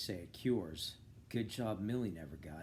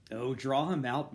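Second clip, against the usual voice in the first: eagerly; 3 semitones higher, 6 dB louder than usual. Acted. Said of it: "said eagerly".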